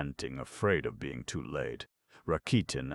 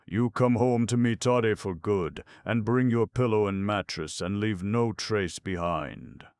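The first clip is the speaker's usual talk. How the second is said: loud, higher shouted order; shouting; 6 semitones higher, 5 dB louder than usual. A narrator's reading. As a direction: bellow it across the yard. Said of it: "his father shouted from far off".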